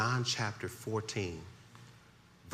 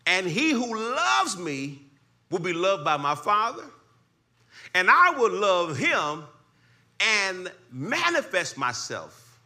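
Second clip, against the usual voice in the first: higher, louder, slow preaching build; preaching scripture; 10 semitones higher, 6 dB louder, slower than usual. Acted. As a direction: lift the verse up to the congregation. Preaching scripture at rising force.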